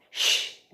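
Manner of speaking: SH alone, a long unvoiced hush; isolated onset. Shown as a demonstration. Teacher showing the onset of sheep, isolated sound. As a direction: hold just the SH sound of sheep. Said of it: "qual que é o onset?".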